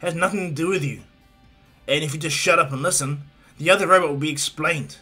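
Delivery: Bakugo's scolding. Acted. Hothead tells a pushy classmate to sit down, scolding. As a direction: lay into him phrase by phrase, mildly acted.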